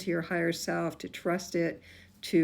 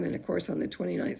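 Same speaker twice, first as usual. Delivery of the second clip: hoarse voice; faster than usual. Real, not acted. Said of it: "sorry, I'm losing my voice".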